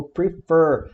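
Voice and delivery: prefer with the weight on FER; stress on the last syllable. Shown as a demonstration. Teacher modelling the verb for students, prefer stressed on FER. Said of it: "a gente fala prefer".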